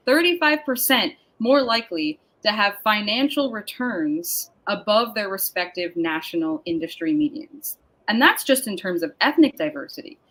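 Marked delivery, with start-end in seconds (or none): 0.1-6.6 slow, deliberate repeat of "thirty-five percent more likely"; slow for emphasis. Real, not acted. Host stressing a statistic to the audience, slow and deliberate. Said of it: "I'm gonna say it slow so it sinks in".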